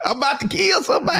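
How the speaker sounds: high, quick mock fury; hammed-up exasperation; fed-up rant. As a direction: act out someone ready to snap. Acting out fed-up person.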